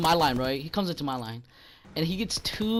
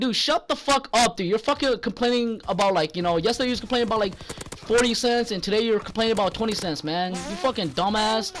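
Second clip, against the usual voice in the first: retold telling-off; 4 semitones higher than usual. Retold telling-off of complaining customer.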